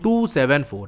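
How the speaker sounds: "टू seven four" read as separate digits. Shown as a demonstration. Teacher showing how decimals are read, digit by digit. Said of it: "उसको simple अलग अलग पढ़ेंगे".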